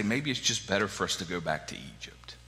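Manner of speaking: a soft mock whisper of grumbling people; whispered grumble. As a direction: hush it like a sulky complaint. Grumbling Israelites, whispered complaint.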